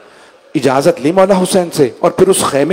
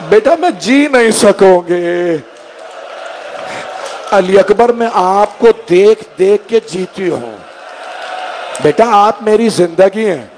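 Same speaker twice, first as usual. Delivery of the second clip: mother pleading with her son, tearful; 5 semitones higher than usual. Acted. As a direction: beg him through tears to stay. Mother begging her son to stay.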